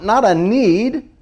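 "not" stretched slow and pushed high; stress on not. Shown as a demonstration. Preacher stressing "not" in a want versus a need. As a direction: lean hard on "not", slowly.

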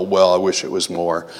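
low, soft, modest mumbled reply; mock humility. Preacher imitating believers asked about their love for God, mock humble. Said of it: "in humility, we want to go".

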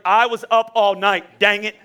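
lightly acted worn-out parent complaining; exasperated parent. Tired parent snapping at kids.

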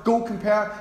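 sing-song nod to the Go Compare advert; advert jingle. Retold or imitated. Preacher quoting the Go Compare advert, mock jingle. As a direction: quote the advert catchphrase lightly. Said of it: "like the advert".

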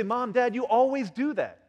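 put-on high, aggrieved kid voice; complaining child. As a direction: accuse your parents like a fed-up kid. Acts out child complaining to parents.

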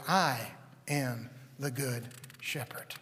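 slow unvoiced whisper of "I am the good shepherd". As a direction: breathe it, slow and hushed. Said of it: "And he said".

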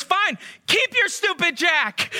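high, slow, indignant mock huff; hammed-up offended outburst; huffy snap. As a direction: storm off in a childish huff. Man snaps at farmhouse owners.

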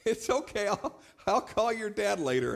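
put-on talking kindly to a toddler; sweet talk to a toddler. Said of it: "So I just said".

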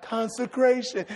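"Consecration" said hesitantly, as if forbidden; like a cuss word. Retold or imitated. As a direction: mimic a reluctant congregation saying "Consecration". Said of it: "say it like it's a cuss word".

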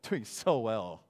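slow, drawn-out put-on reply; fake cheerful. Churchgoer hiding trouble from a friend, fake cheerful. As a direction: stretch out a pretend happy answer.

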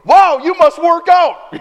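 hammed-up wow from the doctor; impressed doctor. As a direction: marvel at him, doctor-style. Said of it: "he goes".

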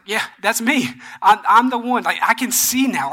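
lifted, eager retold reply; pumped, excited. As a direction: imitate someone pumped with good news. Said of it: "he's, he's pumped. He's excited".

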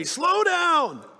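high mock yell at a driver. Pedestrian yelling at the pastor's car, high mock yell. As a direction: shout a warning from the sidewalk. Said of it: "He starts yelling at me".

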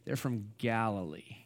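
low, soft mock disdain; looking down. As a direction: say it under a snob's breath. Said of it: "they look down on them".

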